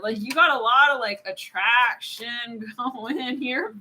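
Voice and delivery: put-on playful, drawn-out Texan accent. Tarot reader telling listener about attraction, stretched Texan accent. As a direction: drag it out in mock Texan. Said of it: "can't even get out of the accent now".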